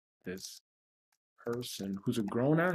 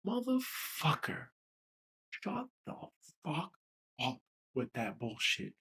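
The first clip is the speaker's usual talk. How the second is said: exasperated cursing; 4 dB quieter, slower than usual. Real, not acted. Cursing back at dismissive critics.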